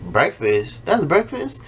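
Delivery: incredulous, rising up high on that's; mock outrage at a lunch called breakfast; disbelief. Mother looking at the Lunchable, in rising disbelief. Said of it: "And I'm over here like".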